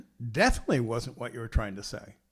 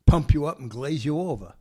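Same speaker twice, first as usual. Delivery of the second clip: failed Australian accent; 5 dB louder than usual. Shown as a demonstration. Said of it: "I think I got the wrong accent".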